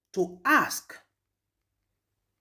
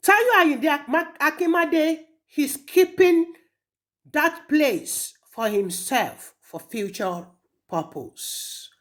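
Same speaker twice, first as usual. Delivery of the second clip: raised, higher voice, slowly spitting out the name; angry accusation; 6 semitones higher, slower than usual. Acted. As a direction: hurl the name at him in anger.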